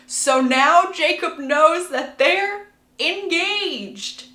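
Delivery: high, drawn-out gossip reveal; dramatic reveal. Real, not acted. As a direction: stretch it out high, milking the bombshell.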